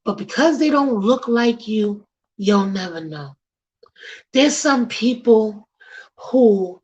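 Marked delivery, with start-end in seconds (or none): 4.3-6.8 slow hushed whisper, leaning in. Real, not acted. Host drops to a whisper to stress the point. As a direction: breathe it like a secret.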